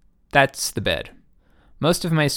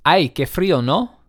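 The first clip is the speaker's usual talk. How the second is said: imitating sleep talk; 5 semitones higher, 5 dB louder than usual. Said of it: "That was".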